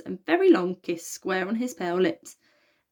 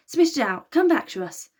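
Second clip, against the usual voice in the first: desperate plea; 7 semitones higher, 5 dB louder than usual. A narrator's reading. Desperate plea to drowning boy.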